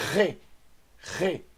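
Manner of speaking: "Re" with a rasped throat fricative, like KHE; Hebrew khaf sound. Shown as a demonstration. Hebrew teacher showing the khaf sound, throaty fricative "Re". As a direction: scrape the R of "Re" at the back of the throat. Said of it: "som de".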